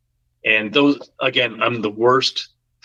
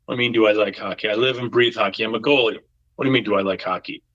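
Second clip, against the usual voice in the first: quick-fire Boston bartender retort; Boston accent; much faster than usual. Retold or imitated. Bartender asked if he likes hockey, quick Boston accent. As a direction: throw the question back in a Boston accent. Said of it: "Bostonian accent".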